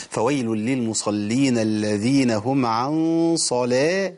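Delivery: صلاة chanted slowly with a heavy lam; slow recitation in the wrong reading; wrong reading demo. Shown as a demonstration. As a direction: show the Warsh-style heavy lam in صلاة as the wrong choice here. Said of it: "مش صلاة".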